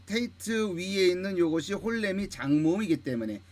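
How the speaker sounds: usual speaking voice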